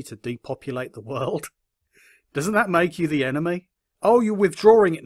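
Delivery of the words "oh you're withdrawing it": mock surprise. Real, not acted. Mocking reaction.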